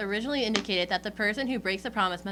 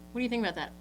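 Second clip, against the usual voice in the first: ordinary talk, nothing marked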